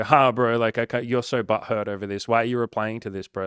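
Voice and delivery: loud jeering troll; loud smug troll sneer; mocking troll. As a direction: scoff at him like a smug troll. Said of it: "person will go".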